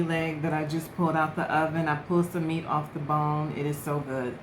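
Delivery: talking while chewing; words around a bite of turkey; mouth full. Real, not acted. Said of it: "I know it's rude to talk with your mouth full".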